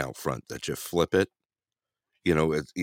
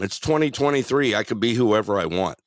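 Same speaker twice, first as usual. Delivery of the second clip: retold yell back; 3 semitones higher, 3 dB louder than usual. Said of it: "And I yelled back at him".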